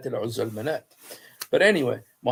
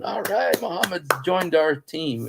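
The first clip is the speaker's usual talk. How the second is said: higher-pitched mock rejoicing; happy cheer; 5 semitones higher than usual. Pagans celebrating Muhammad joining their team, happy mock cheer. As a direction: act out a pleased crowd welcoming a new teammate. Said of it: "were so happy".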